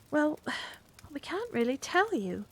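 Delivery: sighed whisper. A narrator's reading. Carrie admitting to the policeman in a sighing whisper. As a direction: breathe it out, afraid to tell.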